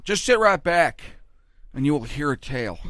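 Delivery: a hint of Bush quoting a TV theme; Bush impression. Comic doing Bush quoting the Gilligan's Island theme, mild impression. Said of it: "my Bush impression is like him".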